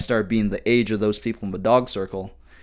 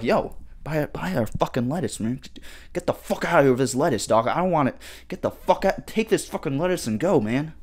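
higher, pushy grocer voice shoving lettuce at you; mock aggressive vendor; 5 semitones higher than usual. Grocery clerk forcing cheap lettuce on a shopper, higher mock aggression. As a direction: play the pushy lettuce seller, mock-rough and raised in pitch. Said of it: "they start getting aggressive with you".

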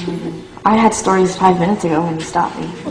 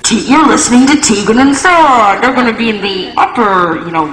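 a lightly voiced mall announcer, raised and louder; mock the store PA plugging the band; 5 semitones higher, 4 dB louder than usual. Mall speaker announcing the band's show, mock announcer voice. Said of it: "tracks would be like".

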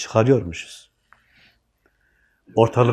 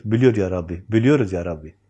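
lower, humble answer to God; "Biliyor ya Rabbi" said lower and devoutly; humble prayer; 4 semitones lower than usual. Shown as a demonstration. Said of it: "Ne diyoruz?".

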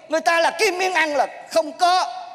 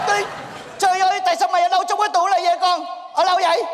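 quick, higher-pitched startled questioning; flustered disbelief; 4 semitones higher, faster than usual. Acted. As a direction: demand an explanation in a rush. Magician finds wrong man in cabinet.

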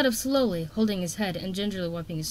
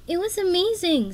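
high, bubbling excitement; excited; 11 semitones higher, 5 dB louder than usual. A narrator's reading. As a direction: gush it out breathlessly. Sunny excited about escape.

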